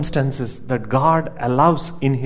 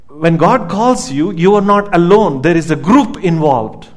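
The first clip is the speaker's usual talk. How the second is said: preaching emphasis; 2 semitones higher, 4 dB louder than usual. Acted. Preacher climaxes the point.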